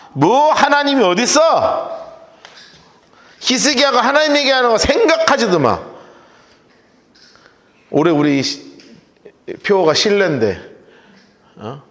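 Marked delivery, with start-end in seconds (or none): 0.1-5.8 비웃는 말투. Retold or imitated. 랍사게 비웃는 흉내.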